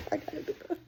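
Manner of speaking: high, soft, trailing repeat; spent self-reproach. Real, not acted. Repeating it to herself after a laughing fit, softly. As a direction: say it small, out of steam after laughing.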